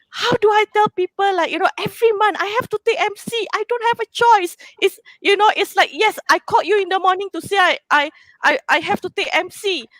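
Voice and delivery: high tearful voice, words pushed out; pleading through real tears; real crying, voice strained high; still crying. Real, not acted. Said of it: "I am very emotional about this".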